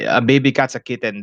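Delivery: Filipino-accented English, both syllables of "kitten" sounded. Shown as a demonstration. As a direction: say "kitten" with a clear second vowel, Filipino style. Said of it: "my accent comes back".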